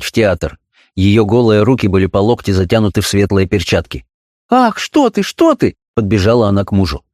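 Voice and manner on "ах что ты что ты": high, gasping mock alarm; hammed-up wifely fright; theatrical fright. A narrator's reading. Wife rushes to husband in theatrical alarm. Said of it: "кричала она с театральным испугом".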